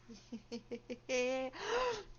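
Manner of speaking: drawn-out villain laugh; evil laugh. Acted. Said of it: "Evil laughs".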